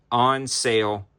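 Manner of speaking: winded, breathy price read; running out of air; out of breath. Real, not acted. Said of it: "I'm out of breath".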